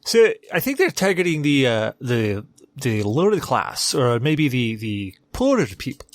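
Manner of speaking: put-on British accent, held throughout. Shown as a demonstration. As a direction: say it like a posh Brit. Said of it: "You say it in a British accent".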